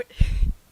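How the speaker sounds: loud breathy cackle; real laughter burst. Real, not acted. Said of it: "I'm laughing too much".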